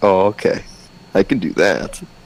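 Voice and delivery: ordinary talk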